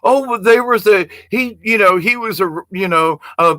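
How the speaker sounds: mock whiny critic. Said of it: "And I'm like".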